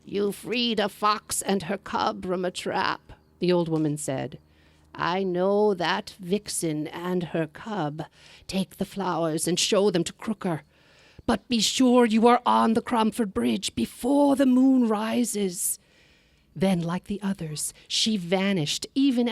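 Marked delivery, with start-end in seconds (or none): 0.1-3.1 put-on old woman in green. Third old woman speaks. 4.9-15.8 put-on old woman in green. Third old woman warns.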